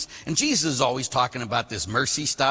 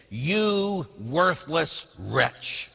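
stern rebuke; much slower than usual. Acted. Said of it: "Then in anger".

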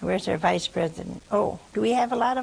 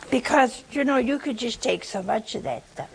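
ordinary delivery

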